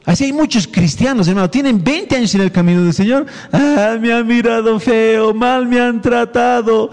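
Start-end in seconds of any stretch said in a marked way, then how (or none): 3.5-6.9 mock whining complaint. Mocking complaining church members.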